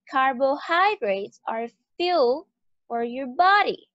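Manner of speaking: teacher reads the example, stressing key words; stress on carbohydrates, fuel, body. Shown as a demonstration. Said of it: "esas tres palabras ya están subrayadas".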